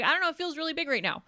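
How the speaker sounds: high, loud playful protest; mock overwhelmed. Answering the blunt friend, hammed-up overwhelm. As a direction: wail it in mock distress.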